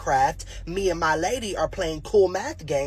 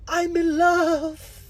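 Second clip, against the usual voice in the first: smitten gasp; 8 semitones higher, much slower than usual. Retold or imitated. Smitten kid sees new girl.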